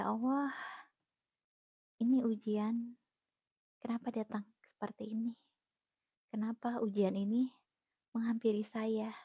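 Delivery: soft, near-whispered why me; hushed despairing prayer. Retold or imitated. Recalling her first despair, she whispers her questions to God. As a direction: barely voice the plea to God.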